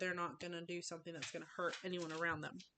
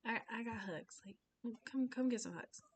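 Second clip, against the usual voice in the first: higher, gentle invitation; comforting; 4 semitones higher than usual. Shown as a demonstration. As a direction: coax a child in for a hug. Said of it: "just being for them sometimes".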